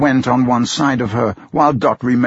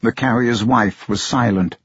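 ordinary delivery

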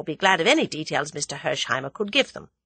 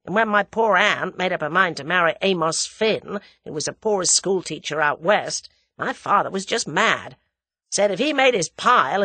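Hersheimer, American storyteller; 3 semitones higher, 4 dB louder than usual. Acted.

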